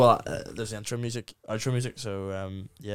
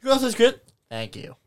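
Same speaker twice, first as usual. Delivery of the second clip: mock gushing high; 11 semitones higher, 4 dB louder than usual. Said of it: "You get no crack".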